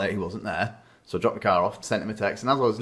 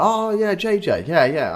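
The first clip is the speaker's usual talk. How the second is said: higher, louder, breezy dad; imitating dad; 9 semitones higher, 5 dB louder than usual. Dad recommending his mechanic, higher breezy imitation. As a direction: toss off the name like an old regular. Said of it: "And he was like".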